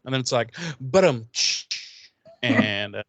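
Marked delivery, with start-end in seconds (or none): 0.8-1.3 imitated rimshot. Mimics a comedy drum sting.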